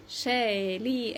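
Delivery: "شاليه" slowly, ending in é; French pronunciation demo. Shown as a demonstration. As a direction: model "شاليه" with a silent final t. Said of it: "اخرها او تي انطقها ايه".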